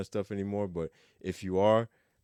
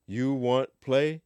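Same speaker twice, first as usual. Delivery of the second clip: slow, higher word-by-word question; slow literal rendering; 4 semitones higher, 4 dB louder, much slower than usual. Shown as a demonstration. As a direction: drag it out as a literal gloss. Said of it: "You know, you wa".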